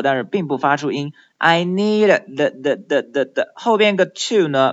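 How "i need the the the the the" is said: "need" with its final D held back; teacher drilling "need" with a swallowed final D; unreleased final D. Shown as a demonstration. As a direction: stop the tongue on the D of "need" without releasing it. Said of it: "只做出了发音的动作，但是并不发出音".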